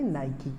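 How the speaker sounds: Nike as "NY-kee"; correct pronunciation. Shown as a demonstration. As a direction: sound the final e of Nike as "ee". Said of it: "इसको हम pronounce करेंगे".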